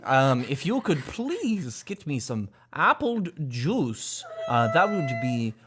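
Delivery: slow, stately mock British gentleman; lightly voiced prim old Brit; old British man. Parent imitates daughter politely asking for apple juice. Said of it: "she talks like an old British man".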